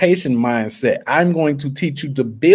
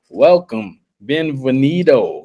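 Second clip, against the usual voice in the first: put-on Panamanian accent. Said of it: "in my Panama accent".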